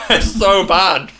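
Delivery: slow, drawn-out disgust. Real, not acted. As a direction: groan out disgust at the taste. Reacting to disgusting food.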